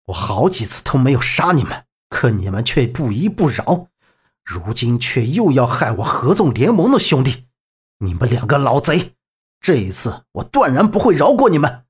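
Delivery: lightly voiced stern avenger, low; understated menace.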